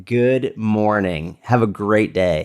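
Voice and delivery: very slow, level-pitched good morning; measured and deliberate, as if holding eye contact; intimidating greeting. Acted. Greeting someone while looking them in the eyes, intimidating. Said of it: "yours was a little intimidating".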